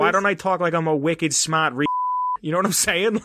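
put-on broad Boston accent, dropped R's. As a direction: say it like a wicked smart Boston guy. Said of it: "can we get your Boston accent again".

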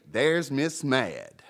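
slow, drawn-out mocking nickname; mock sneer. Shown as a demonstration. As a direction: stretch "Mad" out with scorn.

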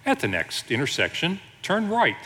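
lightly voiced sat-nav lady; a hint of a pleasant GPS lady. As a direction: give directions like a polite navigation system. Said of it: "talks to me in this pleasant voice".

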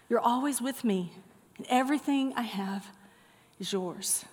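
soft, falling away quietly at the end; tender father. Acted. Father reassuring his older son, gently acted. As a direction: reassure gently, with pauses between phrases.

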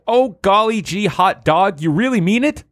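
put-on high, gushing golly-gee boy; excited kid voice. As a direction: squeal it like a thrilled kid. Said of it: "With excitement in his eyes".

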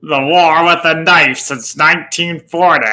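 a light John Wayne drawl; lightly voiced John Wayne. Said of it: "accent's right".

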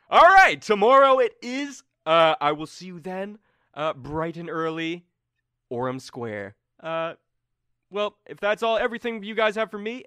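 very high, loud sing-song sign-off; Turi voiced. Game master as Turi cheerfully closing the meeting. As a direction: wrap it up brightly, slowing on bright and early.

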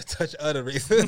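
cracking up as you say it; giggling echo of a joke; laughing repeat. Real, not acted. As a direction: repeat the phrase through a laugh. Repeats the line while laughing.

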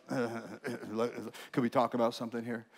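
a quiet voice interrupting your reading; Holy Spirit's gentle nudge. Retold or imitated. Holy Spirit interrupting the pastor's devotions, soft slow nudge. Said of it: "the Holy Spirit starts".

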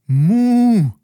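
very high, loud indignant moo; a firm no in cow; protesting moo. Acted. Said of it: "schüttelte energisch den Kopf".

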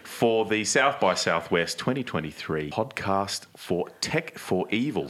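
put-on Aussie-accented thank-you to the crowd; ocker Australian accent. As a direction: keep up the playful ocker Australian act. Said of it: "in my very ochre Australian accent".

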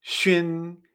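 "shun" as shüin, sh before ü-in; X pronunciation. Shown as a demonstration. Teacher modelling X plus the final, "shun" as shüin. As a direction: say "shun" with rounded ü gliding to in. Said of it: "con la X".

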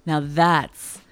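slow, low sultry purr; sexy voice. Pretend. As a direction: seduce the listener slowly. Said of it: "I'm gonna use my sexy voice for this one".

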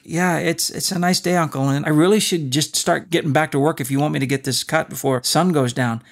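polite but impatient reply. Retold or imitated. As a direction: hurry him along, barely polite. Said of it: "I was feeling so impatient with him".

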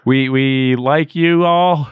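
very slow, drawn-out sign-off. Real, not acted. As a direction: stretch it slowly to the listeners. Signing off the episode.

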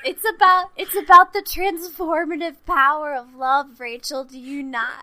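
moved, fighting back tears; choked up. Real, not acted. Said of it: "getting choked up talking about it".

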